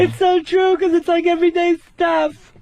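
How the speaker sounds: white lady impression. Audience member raves about an expensive show, white-lady voice. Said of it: "that's my impression of a white lady".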